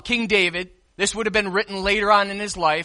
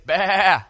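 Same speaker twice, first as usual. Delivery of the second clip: sheep bleat. Shown as a demonstration. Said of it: "Everyone say".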